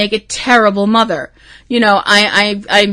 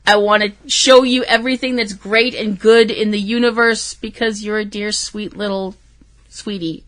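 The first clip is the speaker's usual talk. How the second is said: tender motherly; 5 dB quieter than usual. Retold or imitated. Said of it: "I was like".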